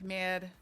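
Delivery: "mad" with the Delco regional A; weird Delco A. Shown as a demonstration. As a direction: give "mad" its local Philadelphia-area vowel. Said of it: "Our A's are weird".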